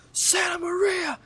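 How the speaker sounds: high, slow startled shout; shocked shout. Retold or imitated. Teacher spotting the thrower, high slow shout. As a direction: yell it like a teacher catching the culprit. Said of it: "and he goes".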